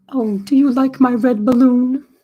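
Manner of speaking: high cartoon bear voice. Just finished building Pooh's balloon, speak as him to the viewers in a decent Pooh Bear impersonation. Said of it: "I do a decent Pooh Bear impersonation".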